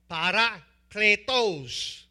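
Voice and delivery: parakletos said slowly with a Spanish accent. Shown as a demonstration. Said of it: "how's my Spanish accent?".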